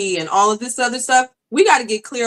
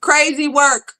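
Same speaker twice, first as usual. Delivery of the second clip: lightly voiced pastor, firm; 2 semitones higher than usual. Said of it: "He said".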